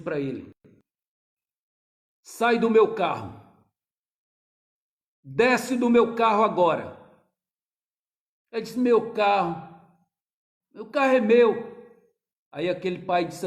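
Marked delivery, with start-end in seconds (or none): 2.2-7.0 stern order. Retold or imitated. Father orders son out. 8.8-11.5 loud, slow, stubborn claim; the son yells his ownership; defiant shout. Retold or imitated.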